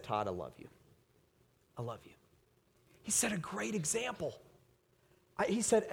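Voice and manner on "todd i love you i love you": softer, tender father's words; tender reassurance. Retold or imitated. Father comforting his son after discipline, soft and tender. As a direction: hold him and say it gently.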